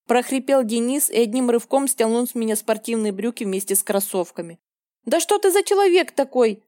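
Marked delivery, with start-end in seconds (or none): 5.0-6.6 shrieked question. A narrator's reading. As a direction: pitch it up sharply in outrage. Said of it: "завизжала я".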